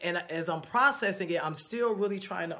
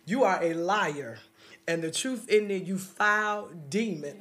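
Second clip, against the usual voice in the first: mother's rebuking prayer. Retold or imitated. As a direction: command the demon to leave. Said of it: "she began to pray".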